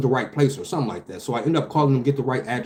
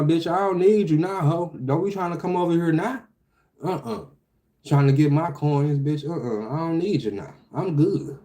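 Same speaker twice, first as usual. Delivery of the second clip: sassy dismissal; 4 semitones higher than usual. Real, not acted. Mock telling off the agency.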